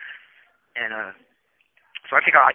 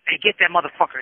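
mock yell; 6 semitones higher, 3 dB louder than usual. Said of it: "he yells across the street".

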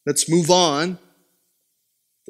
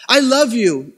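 slightly higher, imitated child's plea; pleading son; 4 semitones higher than usual. Son who took it too far to his papa, mock pleading. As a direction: lightly play a boy sweet-talking his papa. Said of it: "He took it too far".

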